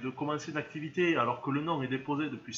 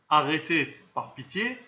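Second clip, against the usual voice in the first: a loud burst on Arrêtez, then pleading; exasperated plea; 6 dB louder, slower than usual. Real, not acted. Host begging viewers to drop silly shop names, exasperated plea. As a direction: beg them to stop, half joking.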